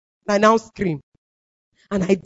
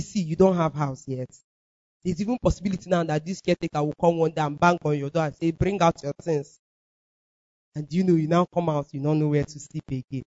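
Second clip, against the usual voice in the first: low, subdued self-talk; explaining to oneself; 7 semitones lower, 8 dB quieter than usual. Retold or imitated. Woman explaining her housing trouble to herself, low and soft. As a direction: reason it out softly to yourself. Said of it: "started explaining it to myself".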